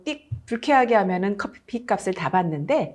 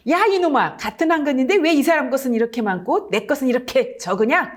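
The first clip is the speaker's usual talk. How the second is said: angry shout; 3 semitones higher than usual. Acted. Angry nobleman shouting at the butcher about the small portion. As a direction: yell at the butcher for short measure. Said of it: "몹시 화가 나서 소리를 지르며".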